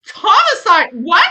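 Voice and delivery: imitating her own shocked yell; outraged exclamation. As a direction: spit out homicide like it's obvious. Retelling her rage versus husband's.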